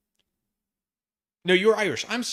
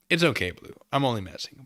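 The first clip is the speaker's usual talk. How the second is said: ordinary delivery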